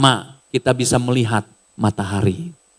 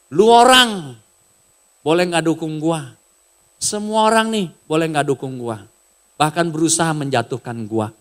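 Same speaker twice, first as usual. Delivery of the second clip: quoting the governor. Retold or imitated. Governor addresses his opponents, blunt and defiant. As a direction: speak it straight and defiant. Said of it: "satu statement ... dia ngomong".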